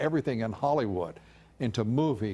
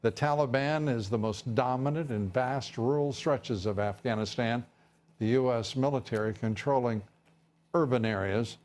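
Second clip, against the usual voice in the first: measured anchor delivery; news read. Acted. Anchor reporting war figures to viewers, news read.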